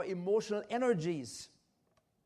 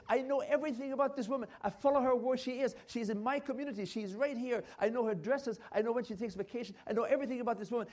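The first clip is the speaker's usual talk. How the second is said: obsessed wife; 4 semitones higher, 4 dB louder, faster than usual. Retold or imitated.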